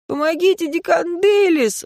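student clinging to a treetop cries for help; frightened cry. Acted. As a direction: wail for help, terrified of falling. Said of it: "вскрикнул он".

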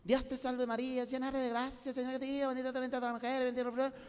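lightly voiced old woman mumbling her rosary; old lady praying. Old lady praying in church before the ball hits her, mildly voiced. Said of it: "así estaba la viejita sentada".

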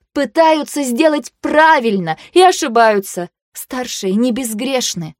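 slow, pointed, heated words; heated lecture. A narrator's reading. Vayu jabs Tir's chest, slow and heated. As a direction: drive each word home with a jab. Jabbing a finger at Tir.

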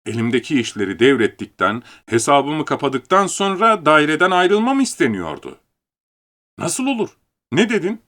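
usual speaking voice

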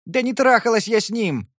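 shouted. Acted. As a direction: scream the denial. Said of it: "прокричала Твин".

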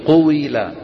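قويلة said with a full kasra on the و; نطق قويلة للتقليد; modelled pronunciation. Shown as a demonstration. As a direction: say قويلة so the students copy it. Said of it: "جربوا هيك".

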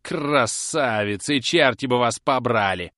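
loud mock-sweet then cursing; angry curse. A narrator's reading. Susan Nipper cursing the ladies at the door, loud and angry. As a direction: curse them through the door. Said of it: "вскричала".

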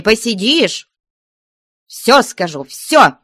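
nun threatening cheeky Marya; angry threats. Acted. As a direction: threaten the girl hotly.

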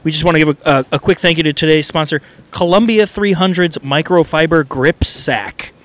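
ad read. Acted. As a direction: pitch the grip sack like a radio spot. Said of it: "we like to do an advertisement".

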